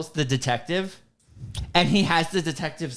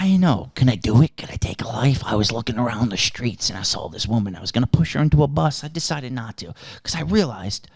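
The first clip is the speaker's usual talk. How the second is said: villain monologue; 3 semitones higher than usual. Retold or imitated. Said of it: "He, like, whispers this entire fucking monologue".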